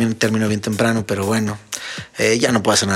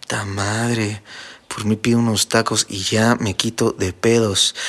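man's inner voice; 3 semitones lower, 4 dB quieter, slower than usual. Retold or imitated. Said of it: "recibe el mensaje de".

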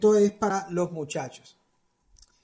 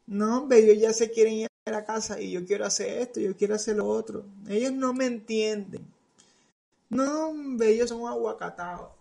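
put-on whiny teen Jesus; 3 semitones higher than usual. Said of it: "en algún momento pensó".

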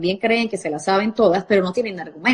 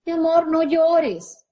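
sugary parent; 6 semitones higher, slower than usual. Retold or imitated. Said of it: "qué le dicen".

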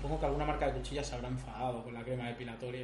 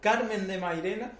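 drawn-out dramatic announcement; 5 semitones higher, 5 dB louder, slower than usual. Acted. Announcing quiz options dramatically.

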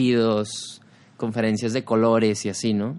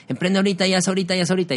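mock hustle guru; 7 semitones higher, much faster than usual. Parodying hustle entrepreneurs.

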